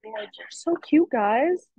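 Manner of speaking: high, delighted gushing over cute art. Real, not acted. Teacher gushing over kids' paintings.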